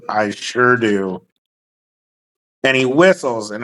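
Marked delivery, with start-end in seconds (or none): 0.1-1.2 slow low drawl. Acted. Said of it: "He goes".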